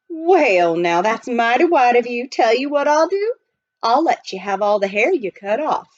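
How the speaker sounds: high, loud, folksy prospector; old miner voice. Acted. Miner explaining to the butler, folksy and loud. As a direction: play the chatty gold miner.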